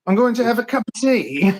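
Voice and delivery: mock English tea voice; English accent. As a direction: play up the English accent for the fans. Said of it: "We love to hear anything in an English accent".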